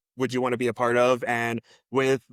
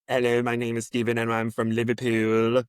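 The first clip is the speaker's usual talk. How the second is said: lightly imitated Liverpool accent; Stephen. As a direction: put on a hint of Scouse, mimicking a castmate. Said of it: "I wanna listen to Stephen's accent".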